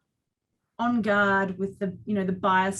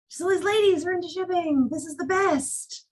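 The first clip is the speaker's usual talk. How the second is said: higher, delighted, slowing at the end; 9 semitones higher than usual. Retold or imitated. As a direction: savour it like a kid in a candy shop. Retold delight at the ladies.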